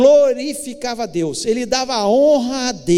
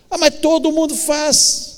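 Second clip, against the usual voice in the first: higher-pitched imagined objection; mock protest; 5 semitones higher than usual. Preacher voices someone excusing what everybody does, mock protest. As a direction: lightly act a protesting peer, pitched up.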